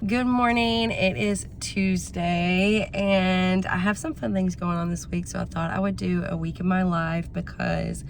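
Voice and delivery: hoarse, raspy voice from a cold; raspy sick voice, a little worn. Real, not acted. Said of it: "so excuse my raspy voice".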